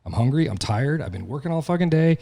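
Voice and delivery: mock your own whining self; hammed-up grumbling to the wife; whiny complaining. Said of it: "I'm like".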